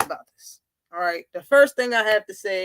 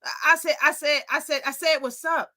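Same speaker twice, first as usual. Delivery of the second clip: stammering nervously; mock stutter, backing down; 3 semitones higher than usual. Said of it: "Bud started stuttering".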